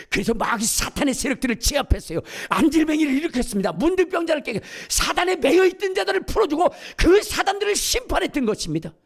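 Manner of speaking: high, loud climbing proclamation; full-force preaching. Acted. Preacher proclaiming Peter's power to the congregation, rising to a loud peak.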